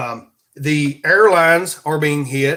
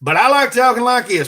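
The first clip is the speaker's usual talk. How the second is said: higher Southern redneck twang; redneck accent; 7 semitones higher, 3 dB louder than usual. Shown as a demonstration. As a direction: lean proudly into redneck talk. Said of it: "talk redneck".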